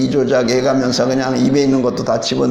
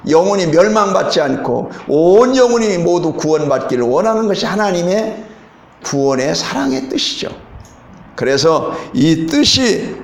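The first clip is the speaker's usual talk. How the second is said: raised, fervent preaching voice; 3 semitones higher than usual. Acted. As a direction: preach it to the congregation with conviction. Preaching the message.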